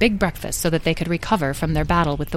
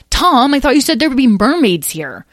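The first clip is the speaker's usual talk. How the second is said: put-on high, loud complaining child; puzzled young dragon; 8 semitones higher, 6 dB louder than usual. Lyle asks Tom where the mermaids are, puzzled. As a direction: question with a note of grievance.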